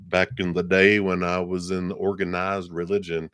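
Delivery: a touch of Texas Southern twang; Southern accent. Real, not acted. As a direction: slip into a light Southern accent. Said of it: "I go into Southern accent".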